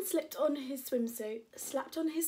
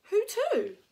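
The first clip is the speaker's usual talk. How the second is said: high, loud shouted question; 11 semitones higher, 10 dB louder than usual. Acted. Preston answering Max in the surf, loud high shout. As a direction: call back over the waves. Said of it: "shouted Preston".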